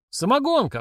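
high-pitched startled exclamation; sudden outcry, pitch leaping up; exclaiming. A narrator's reading. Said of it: "вскричал Толик".

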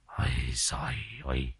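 very soft low muttered ôi giời ơi; muttered sigh. Acted. Elder sighs "Ôi giời ơi" under his breath, very soft. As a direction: breathe "Ôi giời ơi" low and faint, barely voiced. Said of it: "Ông kia lẩm bẩm".

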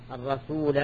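"الرسول" ending in a long aa, ar-rasoolaa; with final alif. Shown as a demonstration. Teacher pointing out the written alif, long aa ending on "الرسول". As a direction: draw out an added final aa on "الرسول". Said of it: "الرسول بالألف".

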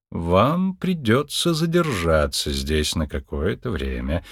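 slow, careful, falling low at the end; slowly. Acted. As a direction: spell it out slowly to a patient. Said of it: "сказала доктор медленно". (медленно и осторожно)

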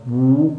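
بو with lips drawn together; rounded damma. Shown as a demonstration. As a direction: round the lips fully on a long بو. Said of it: "فحينئذ تنضم الشفتين". (بو بضم الشفتين)

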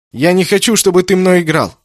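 höher und lauter, die Worte herausgestoßen; herausgeplatzt. A narrator's reading. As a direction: platz mit dem Satz einfach heraus. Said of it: "выпалил Кеннет".

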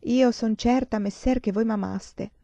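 verse recitation. A narrator's reading. Pupil recites a sonnet for the professor, verse recitation. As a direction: recite the old verse slowly, lifted in pitch. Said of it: "com'è la seconda quartina di quel sonetto".

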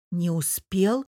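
questioning rise on успел; doubtful. Acted. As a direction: voice the doubt, lifting успел at the end. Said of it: "с сомнением уточнила София".

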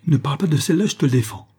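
loud, high-pitched forbidding order; angry cry. A narrator's reading. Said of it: "il cria". (cri de colère, interdiction)

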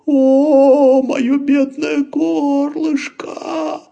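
high, slow mock-wailing lament; hammed-up moaning. Laban to the bunnies, slow hammed-up wail about his throat. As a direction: wail it like a ham faking pain. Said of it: "застонал вдруг Лабан".

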